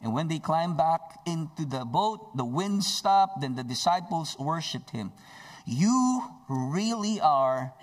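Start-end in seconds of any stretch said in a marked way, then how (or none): 5.6-7.7 exclaimed. Acted. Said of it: "they exclaimed".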